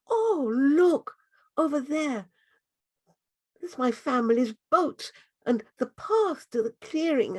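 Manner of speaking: put-on a lost child near tears; a lost girl telling the butterfly her fear; frightened girl. Girl sees her family's boat.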